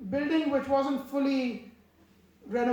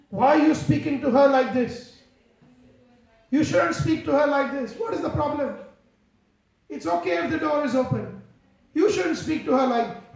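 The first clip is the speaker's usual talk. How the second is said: firm rebuke; 2 semitones higher, 6 dB louder than usual. Retold or imitated. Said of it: "And he said".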